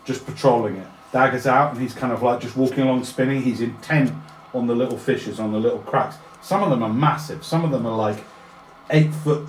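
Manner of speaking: loud, animated scene setting; game master describing at full voice; game master narration. A narrator's reading. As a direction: paint the scene with energy.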